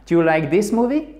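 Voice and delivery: "Do you like this movie" rising on "movie"; rising intonation. Shown as a demonstration. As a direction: lift the end of "movie" for a yes-no question. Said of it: "Donc, montante sur la fin". (« Do you like this movie » montant sur « movie »)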